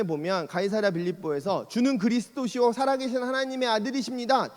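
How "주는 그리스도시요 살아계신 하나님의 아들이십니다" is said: higher, proud declaration of faith; grand confession. Retold or imitated. Peter confessing Christ before Jesus, proudly. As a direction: proclaim it boldly. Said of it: "되게 멋지게 고백하잖아요".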